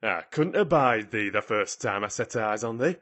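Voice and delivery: indignant scolding in broad dialect; haranguing. A narrator's reading. Ben berating Mary from the ladder, haranguing. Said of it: "he harangued".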